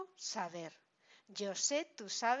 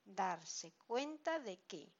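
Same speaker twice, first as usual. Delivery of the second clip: slow example; 2 semitones lower, slower than usual. Shown as a demonstration. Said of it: "Fijaos en la expresión completa".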